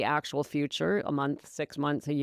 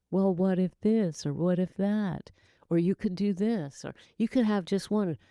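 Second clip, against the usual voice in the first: sarcastic. Retold or imitated. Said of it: "yes, I say it with great sarcasm".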